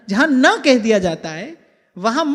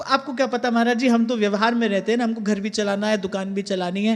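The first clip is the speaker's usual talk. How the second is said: excuse of a householder; 4 semitones lower, 5 dB quieter than usual. Retold or imitated. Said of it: "और ये मत कहना कि आपको".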